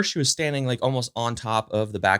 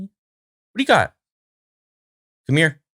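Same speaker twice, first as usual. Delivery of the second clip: higher, slower coaxing pet voice; high slow dog-talk; 5 semitones higher, 4 dB louder than usual. Real, not acted. Asking her dog what she's got, slow high pet voice. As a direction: drag it out high, teasing the dog.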